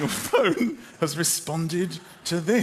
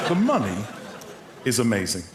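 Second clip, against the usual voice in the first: measured, piece by piece, as if typing; deliberate, broken-up message dictation; dictating a text; 6 semitones lower, faster than usual. Acted. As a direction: pause after money, then drop. Dictating text while typing it, with pauses.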